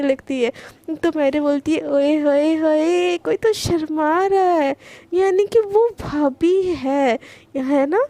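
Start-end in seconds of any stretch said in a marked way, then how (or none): 1.9-8.0 drawn-out, singsong tease of a blushing sister; sly teasing. Acted. Mahira teasing her blushing elder sister, slow singsong teasing. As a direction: stretch it slow and knowing, like you caught her out.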